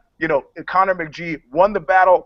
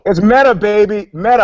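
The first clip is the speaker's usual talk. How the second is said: playful hype, pitch up and louder; hyped; 4 semitones higher, 7 dB louder than usual. Acted. Cohost hyping the show within a show, playful excitement. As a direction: sell the meta joke with a grin.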